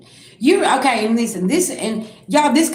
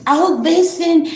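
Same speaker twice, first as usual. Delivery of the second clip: mock sweet, higher greeting from a two-faced friend; fake-sweet greeting; 8 semitones higher, 4 dB louder, slower than usual. Two-faced acquaintance greeting you, mock sweet. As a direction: put on a sugary, higher "Oh, listen". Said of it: "the ones that smile on your face".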